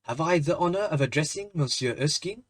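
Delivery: put-on a barely there French accent, polite and formal; a French gentleman's courteous question, lightly accented; a faint French accent, an old gentleman addressing the young man; slight French accent. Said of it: "in a slight French accent".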